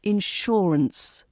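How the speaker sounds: "insurance" slowly, leaning on SHUR, then falling; middle-syllable stress. Shown as a demonstration. Teacher closing the demonstration, slow middle-syllable stress. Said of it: "the stress falls in the middle".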